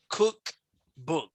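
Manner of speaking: teacher's stress demo of COOK-book; demonstrating word stress. Shown as a demonstration. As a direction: sound out "cookbook" in two separate beats. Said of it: "For example, you listen to the word".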